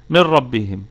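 "من ربهم" with the noon dropped straight into a doubled ra, no ghunna; merged noon, no nasal. Shown as a demonstration. Teacher reciting to students, "من ربهم" as "mer-rabbihim" with no ghunna. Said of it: "هكذا".

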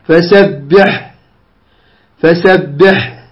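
very slow فسبح with a long, clear ح at the stop; careful pausal فسبح, final consonant sustained; correct final ha. Shown as a demonstration. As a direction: draw out the closing ح of فسبح. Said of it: "تقرأها تأتي ب-، بالحاء".

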